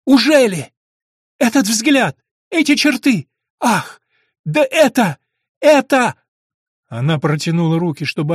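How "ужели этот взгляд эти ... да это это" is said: much higher and louder, breathless astonishment; overwhelmed recognition. A narrator's reading. Prisoner recognises her brother's face, overwhelmed. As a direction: stammer as recognition hits.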